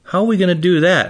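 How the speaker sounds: a hint of a four-year-old asking Daddy; little daughter. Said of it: "And Ava says to me".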